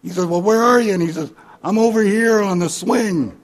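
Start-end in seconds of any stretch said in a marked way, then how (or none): 0.2-0.9 loud, high searching call. Acted. Husband calls out searching. 1.6-3.4 loud, high distant holler; calling back. Acted. Drunk calls back from swing.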